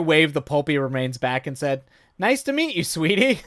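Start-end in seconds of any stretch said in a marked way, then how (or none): 2.2-3.4 sugary greeting. Acted. Tanya greets Danny sweetly.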